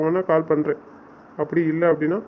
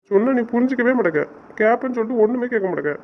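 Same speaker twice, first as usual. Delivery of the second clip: real frustration, voice slightly raised; fed-up complaint, pitched up; exasperated reproach; 4 semitones higher than usual. Real, not acted. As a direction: reproach a partner who won't listen. Quarrel over calling back.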